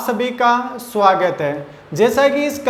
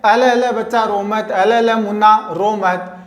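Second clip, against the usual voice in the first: put-on light cooing baby talk; hushing a baby; 3 semitones lower than usual. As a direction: murmur comfort to a crying child. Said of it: "शांत करने के लिए क्या कहते हैं".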